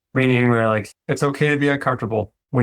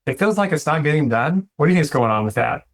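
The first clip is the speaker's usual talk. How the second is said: gentle, supportive; 3 semitones higher than usual. Retold or imitated. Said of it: "come alongside them and be like".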